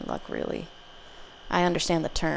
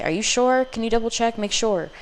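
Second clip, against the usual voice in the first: higher-pitched, disbelieving questioning; incredulous insistence; 5 semitones higher than usual. Acted. Caller pleading with bank to double check, incredulous. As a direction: press the bank with worried questions.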